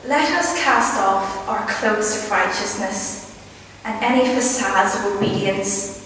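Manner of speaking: measured poem reading with deliberate pauses; poetry recital. Acted. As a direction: recite line by line, letting each phrase settle.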